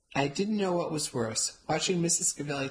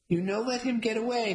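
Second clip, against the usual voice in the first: screamed; 7 semitones higher than usual. A narrator's reading. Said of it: "Missus Gavelli screamed".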